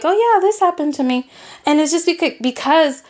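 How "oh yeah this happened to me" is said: lightly tossed-off, higher-pitched quote; casual. Retold or imitated. Telling family about bad things, offhandedly casual. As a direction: shrug it off as no big deal. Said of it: "I just casually, I'm like".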